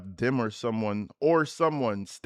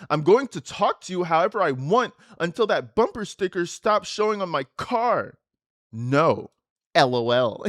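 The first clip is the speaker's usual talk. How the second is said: defiant; 4 semitones higher, 5 dB louder than usual. Retold or imitated. Daughter's defiant text read loudly.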